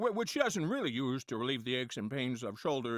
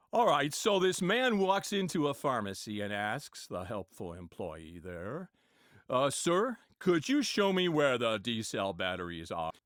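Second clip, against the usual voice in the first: John Wayne impression; 3 semitones lower than usual. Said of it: "John Wayne was".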